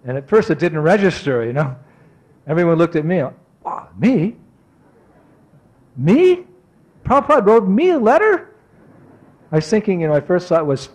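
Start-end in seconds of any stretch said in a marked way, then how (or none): 3.6-8.5 high, rising incredulous questions; retold amazement, pitch leaping up; astonished disbelief. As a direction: ask it as if stunned to be singled out. Acts out disbelief at receiving letter.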